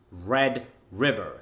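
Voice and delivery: "Red River" slow, D hit, strong American r; American drill delivery. Shown as a demonstration. Coach demonstrating the drill, American and deliberate. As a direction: separate "Red River", landing the D and final er. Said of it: "make sure you hit the D in red".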